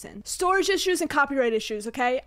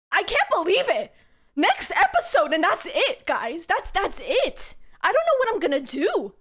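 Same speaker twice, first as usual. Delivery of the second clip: higher-pitched disbelief that it is ending; dismayed excitement; 4 semitones higher than usual. Real, not acted. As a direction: swoop up in dismay.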